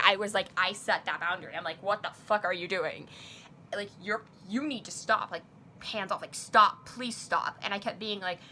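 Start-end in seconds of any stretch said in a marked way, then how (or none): 1.8-7.6 retold firm pushback, bursting louder on stop; aggressive pushback. Telling her online friend to back off, retold aggression. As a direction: push back firmly, as if retelling it. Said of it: "like, aggressive back".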